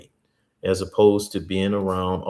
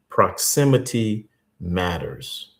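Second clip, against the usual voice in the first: slow, weighty statement; slower than usual. Shown as a demonstration. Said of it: "Write that down".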